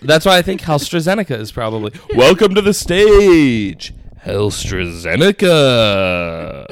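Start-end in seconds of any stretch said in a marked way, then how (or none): 2.1-6.6 club announcer. Pretend. Stripper club announcer intro.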